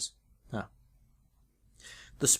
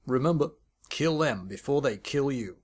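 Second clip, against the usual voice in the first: clipped commander; 3 dB louder than usual. A narrator's reading. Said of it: "clipped syllables".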